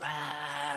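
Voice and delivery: soft drawn-out "aah"; mock Godzilla flame breath. Running around the room breathing flame, soft mock Godzilla breath. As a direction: imitate breathing out flame, kept quiet. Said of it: "it was like Godzilla-ing a flame".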